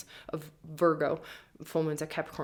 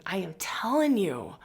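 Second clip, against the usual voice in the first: hushed emphatic aside; whisper; 3 semitones higher than usual. Real, not acted. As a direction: lean in and whisper it.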